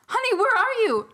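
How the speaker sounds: high, singsong call through the house; stepmom calling out. Acted. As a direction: call for your daughter, high and loud. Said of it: "the stepmom's shoes".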